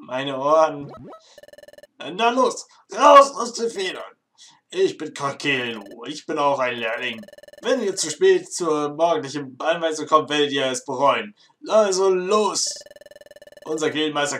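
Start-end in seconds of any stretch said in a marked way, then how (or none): 2.0-4.1 high, slow, booming shout; ridiculously loud voice. Acted. Apprentice hurrying the late newcomers, booming and slow. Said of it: "lächerlich laute Stimme". 11.7-12.8 drawn-out, pitched-up command; slow loud push. Acted. Apprentice ordering the newcomers out, loud and drawn-out.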